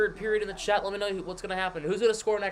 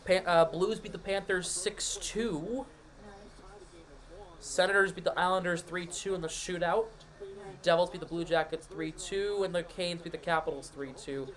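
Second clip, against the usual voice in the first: scores roundup; slower than usual. Acted. Reads other scores.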